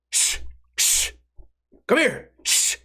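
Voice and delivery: high hissed "hey" broken by shushes; calling over, shushing. Retold or imitated. Winner calling his friend across the bar, furtive calling. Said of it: "he's calling over to his friend".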